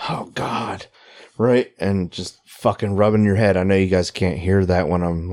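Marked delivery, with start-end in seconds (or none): 0.1-0.9 anguished moan. Pretend.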